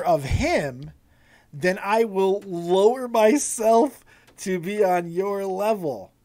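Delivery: slow, deliberate wrestler's challenge; measured taunt, pausing between phrases for weight; Drew McIntyre. Acted. Host acting out a wrestler's condescending challenge, slow and deliberate. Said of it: "Drew's like".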